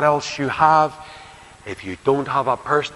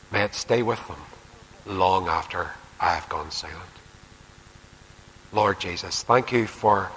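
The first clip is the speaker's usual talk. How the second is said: closing prayer; 2 semitones lower than usual. Real, not acted. Preacher leading the congregation in prayer, earnest and reverent.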